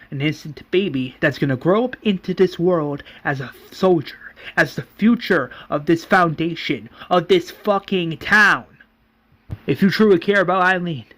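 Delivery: heated argument. Acted. Governor continues the heated quarrel.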